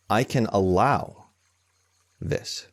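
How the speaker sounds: slow, gentle permission with a pause before the end; softening, allowing. Acted. Meditation teacher offers allowing instead of forcing, softening. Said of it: "There's a softening rather than a hardening".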